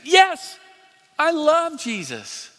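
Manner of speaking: high, loud yes, then drawn-out joy; imitated elation. Preacher voicing the new believer's answer, elated. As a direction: burst out joyfully as the new believer.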